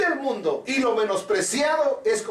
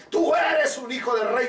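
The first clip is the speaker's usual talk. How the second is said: preaching shout; 3 semitones higher than usual. Acted. The king proclaiming to Mephibosheth, shouted. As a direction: lift it into a ringing shout. Repeated line, second take shouted.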